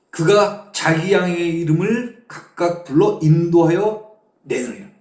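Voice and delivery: measured, declaimed Bible verse reading; preacher reciting scripture. Real, not acted. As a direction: read the verse out firmly to a congregation.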